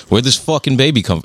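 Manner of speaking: put-on half-hearted go at a New Zealand accent; badly faked New Zealand accent. Quoting a comedy series to a friend, poor New Zealand accent. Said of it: "I can't do the accent".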